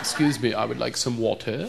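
polite, soft, with over-careful T in "water"; corrected accent. Shown as a demonstration. Easterner politely asking for a drink, over-careful "water". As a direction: enunciate "water" primly, softly. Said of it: "I'm working on it".

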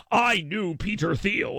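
slow, drawn-out mock boast; mock boastful name-dropper. Host mimicking a listener's message, mock boastful name-dropping. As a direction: imitate someone showing off a connection. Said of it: "Don't message me and be like".

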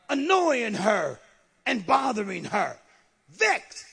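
emphatic, driving pulpit delivery; impassioned preaching. Acted. Preacher describing a tormented daughter to his congregation, impassioned. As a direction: hammer each affliction home.

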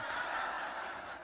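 short unvoiced breathy laugh; soft laugh. Real, not acted. Pastor laughing at his own laptop story, softly. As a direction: let a quiet laugh slip out.

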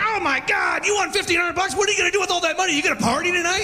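high, hammed-up cheering crowd; mock the hyped-up bar crowd; excited crowd.

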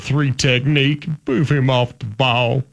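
slow, barked technique instruction; O-line coach impression. Host coaching pretend linemen, slow mock coach bark. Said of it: "impersonate offensive line coaches".

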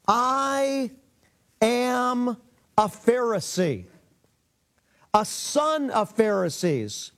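slow, drawn-out declaration with pauses between words; emphatic proclamation. Retold or imitated. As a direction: proclaim it solemnly, retelling Paul's cry without shouting. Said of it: "Listen what he cries out".

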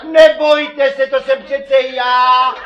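gentle medic. Pretend. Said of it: "postupovat něžně jako zdravotní sestřenice".

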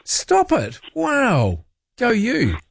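high, excited praise; delighted disbelief, voice leaping up; amazed. Real, not acted. Host cheering caller's many languages, excited and high.

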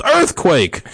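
loud high cry of alarm; yell. Acted. Bishop tries to scare his executioners, high yell. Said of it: "the bishop yelled".

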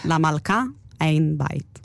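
low, slow, solemn poetry recital; Leah Goldberg impression. Shown as a demonstration. Co-host reciting verse as an announced imitation, low and slow poet's voice. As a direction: recite in measured low phrases with long pauses. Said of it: "אני עכשיו אעשה את החיקוי של לאה".

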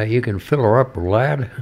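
lightly imitated American accent. Retelling a customer at the service station, lightly mimicked American accent. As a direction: put on a mild American accent. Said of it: "he said in his American accent".

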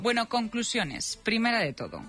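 lively, measured radio script read; radio presenter narration. Real, not acted. Presenter telling listeners the voices are alike, playful radio narration. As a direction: present it with playful, drawn-out emphasis.

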